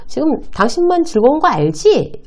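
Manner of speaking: answering a rude colleague, pitying and slow; pitying scoff. Shown as a demonstration. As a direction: look down on him with a scornful smile. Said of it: "한심하다는 듯이 웃으면서".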